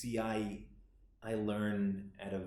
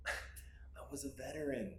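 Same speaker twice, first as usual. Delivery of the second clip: higher, emotional swell with drawn-out words; anguished; 5 semitones higher than usual. Acted. Grieving child recalls listening to dying father, anguished. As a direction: let the hurt lift the voice. Monologue on watching father die.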